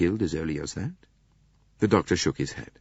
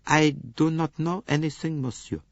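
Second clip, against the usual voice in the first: placid maid; 9 semitones higher than usual. Acted. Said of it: "expression of placid stupidity".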